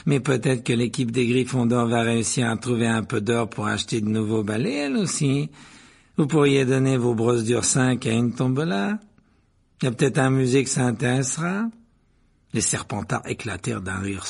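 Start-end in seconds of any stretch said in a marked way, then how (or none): 0.0-11.6 mocking, drawn-up phrase endings; sly schoolyard needling; sugary sneer. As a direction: taunt with fake sweetness, lilting up at the ends. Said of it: "dit Malfoy d'une voix doucereuse".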